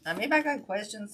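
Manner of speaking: short of breath; talking between quick breaths; shallow breathing. Real, not acted. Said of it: "I can't catch my breath".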